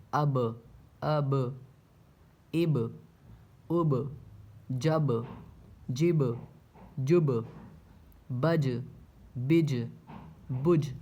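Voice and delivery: each syllable ends with a bouncing echo on the last letter; teacher drilling bouncing end sounds; qalqala bounce. Shown as a demonstration. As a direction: say اب and جب with a sharp rebound on the final consonant. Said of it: "دیکھیے مخرج ٹکر کھا کر الگ ہو رہے ہیں".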